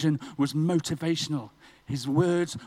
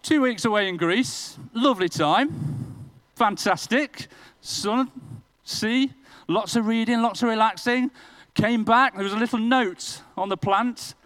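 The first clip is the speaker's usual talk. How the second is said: higher and louder, sunny and carefree; buoyant build; 6 semitones higher, 5 dB louder than usual. Acted. Preacher cheerfully recalling his holiday in Greece. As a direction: savour the holiday before the blow.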